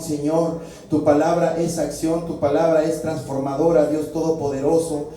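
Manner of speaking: steady, pleading prayer voice calling on the Lord; earnest pastor's prayer, each line closed with Señor; fervent prayer. Acted. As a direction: pray aloud to God for the whole congregation. Pastor leads congregation in prayer.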